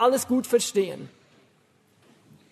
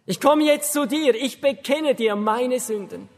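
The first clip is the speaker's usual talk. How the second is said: prayer. Shown as a demonstration. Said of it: "sagen ungefähr Folgendes".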